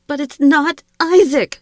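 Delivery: loud, high anguished scream; high-pitched, furious outcry. A narrator's reading. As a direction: scream it in grief and rage. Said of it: "she screamed".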